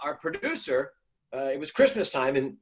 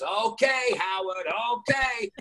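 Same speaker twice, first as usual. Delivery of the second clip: 1 shouted farewell; 10 semitones higher, slower than usual. Retold or imitated. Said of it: "He goes".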